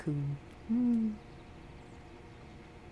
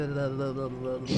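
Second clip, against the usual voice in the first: pigeon impression; 3 semitones lower, 4 dB quieter than usual. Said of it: "I'm gonna do a, a, a pigeon, dove, whatever impression".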